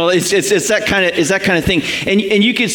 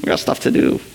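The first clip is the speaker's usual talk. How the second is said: impatient disciples; 4 semitones lower than usual. Retold or imitated. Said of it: "looking in and going".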